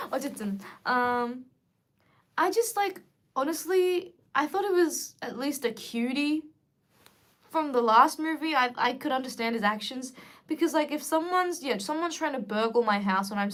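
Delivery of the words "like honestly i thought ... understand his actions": usual speaking voice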